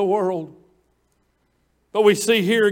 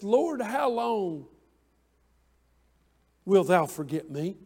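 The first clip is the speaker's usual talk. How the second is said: hushed lament; 3 semitones lower, 8 dB quieter than usual. Acted. Reading David's lament aloud.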